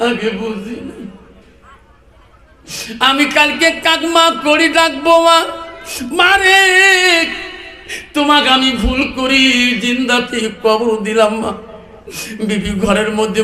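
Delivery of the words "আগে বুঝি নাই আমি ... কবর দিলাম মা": long wailing calls to mother; sing-song mourning of a son; acted crying. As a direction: wail in a tuneful lament, then sink away. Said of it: "স্বামী কান্দে".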